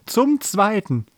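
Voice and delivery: high, drawn-out countdown; auctioneer's call. A narrator's reading. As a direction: stretch it out, waiting for bids. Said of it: "rief der Bäcker Bommel".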